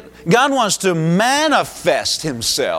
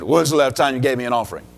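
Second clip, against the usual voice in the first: lower, quick deadpan retort; blunt doctor; 5 semitones lower, faster than usual. Retold or imitated. Doctor Summerall answering a flatterer, blunt and deadpan. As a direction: throw it back flatly and fast. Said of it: "Doctor Summerall looked at him and said".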